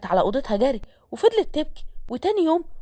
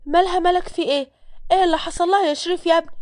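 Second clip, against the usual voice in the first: higher-pitched worried questions from a mother; alarmed mother; 5 semitones higher than usual. Acted. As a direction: play a mother asking what happened, pitched up. Mother walks in on fainted girl. (أم مخضوضة بصوت أعلى نبرة)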